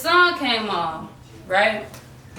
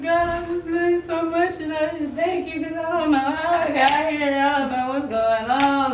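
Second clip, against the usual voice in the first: retold tearful prayer; 8 semitones higher than usual. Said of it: "So I just cried".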